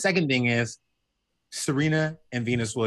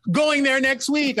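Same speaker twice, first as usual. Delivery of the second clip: much higher, louder and slower eager voice; uppity friend Roger suddenly eager, higher; 13 semitones higher, 4 dB louder, slower than usual. Retold or imitated. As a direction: imitate his instant keen reply. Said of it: "he was like".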